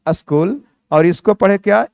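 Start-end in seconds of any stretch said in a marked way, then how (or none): 0.1-0.6 "स्कूल" said as "uh-skool"; short uh before the s of "स्कूल"; correct pronunciation. Shown as a demonstration. Teacher recapping how we read it, "स्कूल" as uh-skool. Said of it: "इसको हम लोग पढ़ें क्या".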